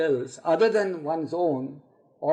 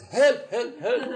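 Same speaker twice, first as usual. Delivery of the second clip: mock cries for help, pitched higher; acted-out cry for help, slightly raised; calling out for help; 6 semitones higher, slower than usual. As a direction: call out for rescue in a storyteller's imitation. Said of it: "starts calling out somebody to help him out".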